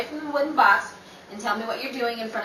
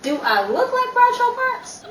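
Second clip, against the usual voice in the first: mock Groucho; 13 semitones higher, 4 dB louder than usual. Mocking jab at Mason.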